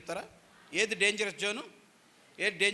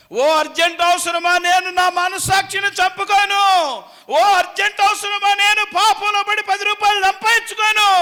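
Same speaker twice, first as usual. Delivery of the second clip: shouted, rising defiance at urgent need; defiant shout; 8 semitones higher, 13 dB louder than usual. Shown as a demonstration. Preacher shouts the believer's defiance at urgent need. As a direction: roar it like kicking the enemy away. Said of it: "అనాలి".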